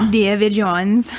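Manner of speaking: slow, lightly put-on Jamaican accent; a hint of Caribbean lilt; Calypso imitation. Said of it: "That was a really poor imitation of".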